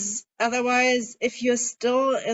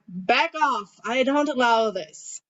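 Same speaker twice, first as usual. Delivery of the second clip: firm boundary voice; slower than usual. Shown as a demonstration. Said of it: "And yeah".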